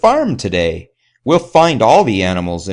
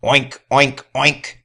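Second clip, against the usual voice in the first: a light, higher piggy oink; 5 semitones higher, slower than usual. Acted. Reading to children, the muddy pig oinks lightly. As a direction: oink like a playful pig in the mud. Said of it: "says the pig".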